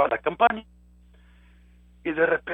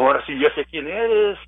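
rebuking command; 7 semitones higher, 4 dB louder than usual. Retold or imitated.

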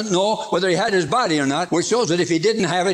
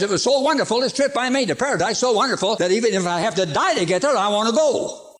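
Paul's longing; 5 semitones higher than usual. Acted.

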